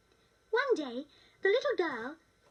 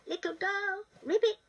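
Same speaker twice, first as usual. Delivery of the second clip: croaky little voice; 4 semitones higher than usual. Acted. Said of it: "said a croaky little voice".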